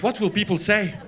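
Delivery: mildly scandalized worry; understated mock horror; fretting mother. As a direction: fret about it at normal volume. Mother fretting, first take.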